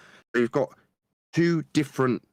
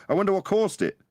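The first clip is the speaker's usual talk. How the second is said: wondering aloud; 12 semitones higher than usual. Retold or imitated. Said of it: "and going".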